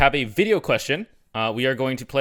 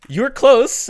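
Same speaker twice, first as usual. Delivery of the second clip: high, slow, laughing through it; 11 semitones higher, 6 dB louder, slower than usual. Real, not acted. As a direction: chuckle the words out teasingly. Laughing at wrong answer.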